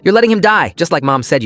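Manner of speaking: high, loud start that settles; desperate child accusing, then dropping; narrated sob, starting at full pitch; sobbing accusation. A narrator's reading. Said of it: "Alice sobbed".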